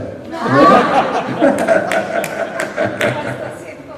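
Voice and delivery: long breathy laughter; airy laugh. Real, not acted. Author laughs after joking he is eighty. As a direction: laugh at the age joke. Joking about his age.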